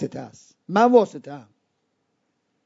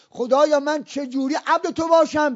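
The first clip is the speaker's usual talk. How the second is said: soft, raised-pitch question to God; humble plea; 4 semitones higher, 5 dB quieter than usual. Acted. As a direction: ask softly, pitched up, like a servant seeking guidance. Voices a servant asking God. (پرسشی آرام و ملتمسانه از خدا)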